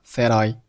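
"said I" joined as one word; linked words. Shown as a demonstration. Teacher showing learners linking, "said I" run together. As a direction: carry the d of "said" into "I". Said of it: "said和I连读成了".

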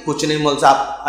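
low, soft mumbled reply; sheepish admission. Retold or imitated. Father admits he knows nothing. (झेंपा हुआ धीमा जवाब)

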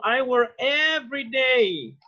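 slow, clear model sentence for students. Shown as a demonstration. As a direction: say it slowly, each word clear. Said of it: "For example".

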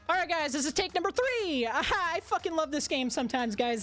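high, laughing, losing it; manic laughing. Real, not acted. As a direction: crack up, half unhinged.

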